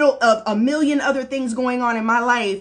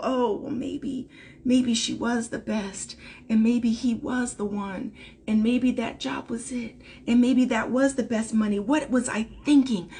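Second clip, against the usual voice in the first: doubting inner voice; 6 dB quieter than usual. Retold or imitated. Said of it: "You can begin to feel".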